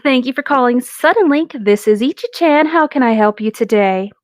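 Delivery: lightly voiced phone agent, sweet then deadpan; customer service voice. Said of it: "this is what you got".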